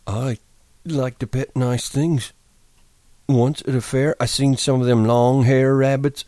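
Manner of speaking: simple, gentle giant voice; Lennie voice. Acted. Lennie's voice in Of Mice and Men.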